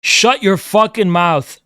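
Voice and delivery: slow, deliberate angry order; slow furious put-down; angry rant. Real, not acted. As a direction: drag each word out in anger. Ranting at chat user.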